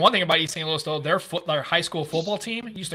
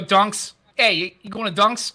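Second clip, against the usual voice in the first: put-on Boston accent; 3 semitones higher, 5 dB louder, slower than usual. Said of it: "And you gotta go".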